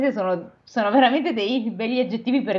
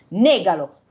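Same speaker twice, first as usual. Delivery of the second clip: mild shout; 2 semitones lower, 4 dB louder, slower than usual. Acted. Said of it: "gridò lo spirito".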